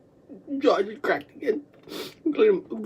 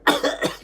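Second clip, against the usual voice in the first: empty, airy cough; short dry hack. Shown as a demonstration. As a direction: cough up nothing but air. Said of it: "Just dry air".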